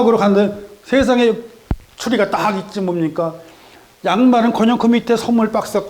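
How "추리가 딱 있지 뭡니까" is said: normal talking voice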